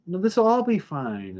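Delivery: retold assurance. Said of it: "he's claiming".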